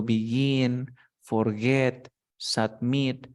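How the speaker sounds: "begin, forget, submit", each stressed on its last syllable; final-syllable stress. Shown as a demonstration. Teacher lists examples for student, final stress on "begin, forget, submit". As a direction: punch the endings: be-GIN, for-GET, sub-MIT. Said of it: "la fuerza de voz está al final".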